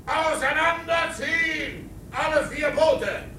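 shouted order. Acted. Boats ordered to spread out.

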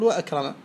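وأكرم with the hamza sounded; pronounced hamza. Shown as a demonstration. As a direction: sound the glottal stop after the waw in وأكرم. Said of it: "نطقت الهمزة فهي همزة قطع".

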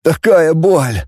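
ordinary delivery, nothing marked

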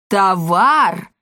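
loud sudden "Товар!"; perking up. A narrator's reading. Father suddenly remembers, loud perk-up. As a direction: jolt to attention. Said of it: "встрепенулся Полиамор".

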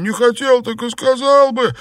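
high, loud indignant wail; a beaten drunk yelps his grievance; aggrieved drunk. Acted. Xuepan whines at Liu Xianglian, high and loud.

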